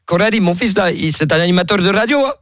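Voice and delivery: put-on invented African accent. Prank caller telling Coralie his new wife comes, in a mock Senegalese accent. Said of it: "j'ai inventé un accent".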